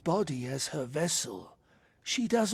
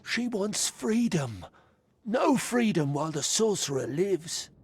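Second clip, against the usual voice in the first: rising anger; 2 semitones higher, 3 dB louder than usual. Acted. Spirit recounts torture, demands freedom.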